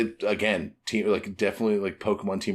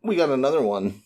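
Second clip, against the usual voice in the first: much higher, sheepish discovery; suddenly remember the spare; mock surprise; 10 semitones higher, slower than usual. Crew finding another log pose, high sheepish surprise. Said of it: "It's like".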